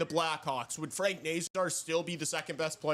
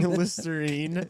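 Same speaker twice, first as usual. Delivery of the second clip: slow laughing mispronounce; drawn-out giggling repeat; 4 dB louder, slower than usual. Retold or imitated. Mocking a misspoken name.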